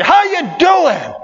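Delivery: preacher shouting God's question; shouted, drawn-out question. Acted. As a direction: boom it out slowly.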